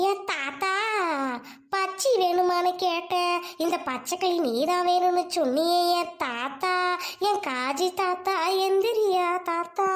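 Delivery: slow drawn fake lament; hammed-up crying for grandpa; mock wailing. Mock mourning with teasing lyrics. (மெதுவான போலி அழுகை ஒப்பாரி)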